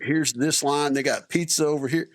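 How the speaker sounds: high, wondering rundown of the food bars; excited soldiers. Retold or imitated. Soldiers walking into the Air Force chow hall, high excited wonder. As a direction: list the treats like kids in a candy store. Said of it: "they're like".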